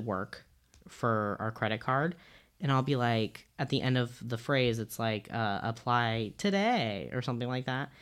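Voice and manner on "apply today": slow, drawn-out announcement; customer service voice. Shown as a demonstration. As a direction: stretch out today like a store announcement. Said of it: "makes fun of me for saying it like that".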